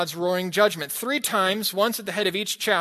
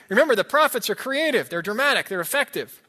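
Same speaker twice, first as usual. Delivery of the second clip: emphatic; 4 semitones higher, 4 dB louder than usual. Real, not acted. Preacher stressing the prophets' drama.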